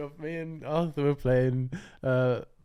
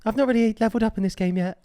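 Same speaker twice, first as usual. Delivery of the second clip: put-on teenage gamer voice; 8 semitones higher, 7 dB louder than usual. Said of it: "they would guess that you're, like, sixteen".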